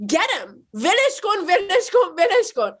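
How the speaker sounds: high mock yell of a mother rallying people. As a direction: teriak pura-pura nada tinggi. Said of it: "starts yelling at the other ones".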